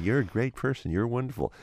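mock cheery praise. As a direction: gush like a cheesy affirmation. Mock positive self-talk.

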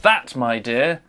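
put-on lightly theatrical old-style narrator; a hint of a grand stage actor; hammy stage actor. Theatrical narration with hark, my dear.

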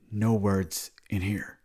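very slow, at an everyday volume; measured repeat order. Retold or imitated. Man repeats his rule to the friend, slow and controlled. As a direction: space the words out slowly.

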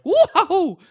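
high, loud, laughing whoa; amazed whoa. Retold or imitated. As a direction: gasp out a delighted whoa. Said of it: "it was like".

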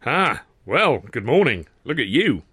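lightly voiced showman; cheery exclamation. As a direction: greet him with mock jollity. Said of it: "Sid exclaimed".

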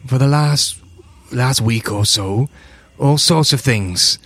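worried father growing urgent; desperate farmer. Acted. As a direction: build from weary to insistent. Farmer recounts the attacks.

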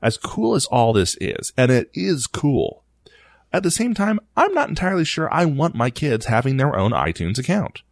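a hint of a stern dad tut-tutting; disapproving dad voice. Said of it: "my disapproving dad voice".

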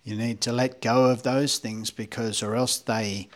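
lightly put-on preachy voice; mock-pious, with a hint of sarcasm; sarcastic religious voice. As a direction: play at sanctimonious advice-giving. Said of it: "that was my sarcastic, religious voice".

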